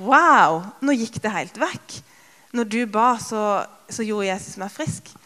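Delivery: loud, amazed wow; overrasket. Retold or imitated. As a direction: gasp it out, stunned the pain is gone. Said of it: "ble jo jeg kjempeoverrasket". (kjempeoverrasket og forbløffet)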